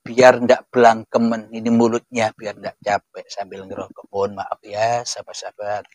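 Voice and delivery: talking around a lit cigarette; cigarette in mouth. Real, not acted. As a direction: speak while smoking a cigarette. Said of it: "Tak ambil dulu rokoknya ya".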